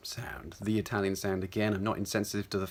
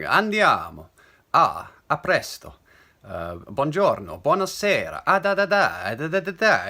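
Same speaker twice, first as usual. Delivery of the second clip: loud, projected mock Italian, pitch leaping up; Italian accent; 5 semitones higher, 8 dB louder than usual. Shown as a demonstration. Voice coach imitating Italian without speaking it, big Italian accent. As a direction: throw it forward like an outdoor Italian voice. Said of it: "I don't speak Italian, but if I just be like".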